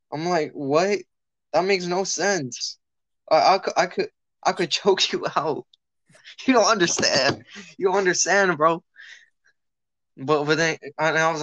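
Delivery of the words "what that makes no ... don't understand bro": louder, disbelieving retelling of his comeback; half-laughing, can't believe this kid; incredulous retort. Retold or imitated. Friend retelling a schoolyard standoff, disbelieving and louder.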